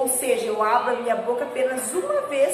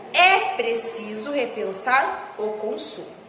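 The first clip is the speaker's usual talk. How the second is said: slow read-aloud; 2 semitones lower, slower than usual. Shown as a demonstration. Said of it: "Olha só".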